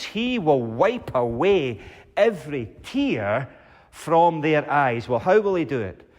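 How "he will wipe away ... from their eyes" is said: slow, tender re-reading of the promise; savoring promise. Shown as a demonstration. The preacher dwells on his last promise, slow and tender. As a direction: linger over every word. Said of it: "What a promise".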